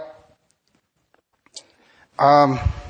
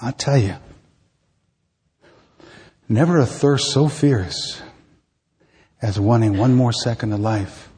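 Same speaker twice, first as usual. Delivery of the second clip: poetry reading. Acted. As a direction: read it like a spoken-word poem. Reads poem aloud.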